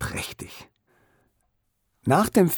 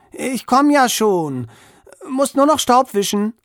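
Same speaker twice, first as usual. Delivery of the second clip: calling out; 10 semitones higher, 5 dB louder than usual. A narrator's reading. Boy calling out to mother.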